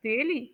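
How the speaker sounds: "Really?" going up, then down, in surprise; surprised rise-fall on "Really?"; rise-fall intonation. Shown as a demonstration. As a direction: swing "Really?" up and let it drop. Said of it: "rising falling intonation को".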